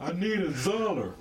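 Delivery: "Zoller" with a Z replacing the D of dollar; high, drawn-out mocking "Zoller"; D turned into Z. Shown as a demonstration. Woman ridiculing slang to her co-host, "Zoller" with an exaggerated Z. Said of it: "said with so much emphasis that the D sound turns into a Z".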